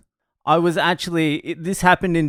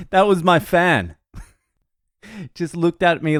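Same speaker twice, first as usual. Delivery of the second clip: laughing punchline; 6 semitones higher than usual. Real, not acted. Comic punchline after laughter.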